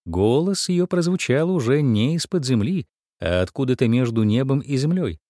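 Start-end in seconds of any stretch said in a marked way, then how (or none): none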